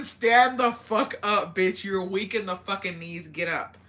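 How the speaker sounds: loud burst easing off, drawn-out opening; mock hype command. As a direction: playfully order someone onto their feet. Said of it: "it's giving".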